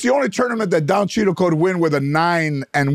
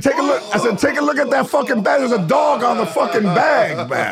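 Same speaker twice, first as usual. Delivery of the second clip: pitched-up urgent pointing; excited high call; 6 semitones higher than usual. Retold or imitated. Excited calling out to friend.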